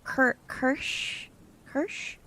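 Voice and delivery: Kirsch said as kursh, testing it; trying out a name. Shown as a demonstration. Streamer testing a chat name's pronunciation, unsure. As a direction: sound out Kirsch as kursh carefully. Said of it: "Did I even say her name right?".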